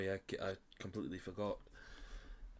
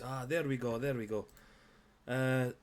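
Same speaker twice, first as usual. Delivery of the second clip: lightly voiced shopkeeper; 4 semitones higher, 4 dB louder, slower than usual. GM voices shopkeeper selling boots.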